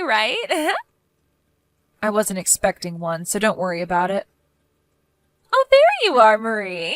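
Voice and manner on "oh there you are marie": mock greeting. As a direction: greet her with exaggerated fake delight. Neighbor greets Sandra with mock surprise.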